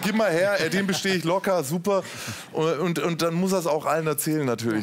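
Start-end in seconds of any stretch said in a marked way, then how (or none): 0.0-2.0 grab the test like a proud show-off; hammed-up eager boasting; mock eager self. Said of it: "Ja, ich so".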